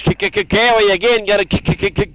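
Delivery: mock stutter.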